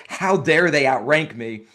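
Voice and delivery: mildly indignant, slow imitation of a rival; mock indignation. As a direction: play a put-out rival, drawn out. Mimics rival outraged at being outranked.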